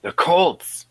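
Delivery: high, incredulous repeat of the pick; surprised echo. Real, not acted. Host reacting to a bold playoff pick, real surprise. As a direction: pitch jumps up in disbelief.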